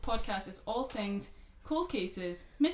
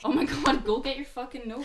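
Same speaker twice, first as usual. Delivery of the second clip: exasperated yell; 4 semitones higher, 7 dB louder than usual. Real, not acted.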